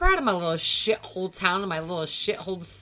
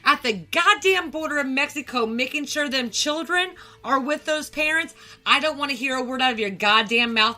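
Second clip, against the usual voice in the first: heated, higher and rising in force; angry rant; 4 semitones higher than usual. Real, not acted. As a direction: lay into them with real anger. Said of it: "That, that was a lovely rant".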